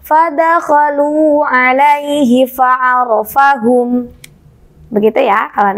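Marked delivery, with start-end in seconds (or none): 0.0-4.1 "Fadakhalu alaihi fa'arafahum" chanted slowly on the high ummi tone; high tone recitation. Shown as a demonstration. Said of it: "baca dengan nada tinggi".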